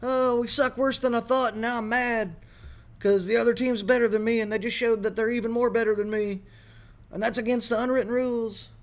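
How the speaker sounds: high whiny mockery of a sulking coach; mock crybaby coach. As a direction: whine like a sore loser coach. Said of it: "He's like".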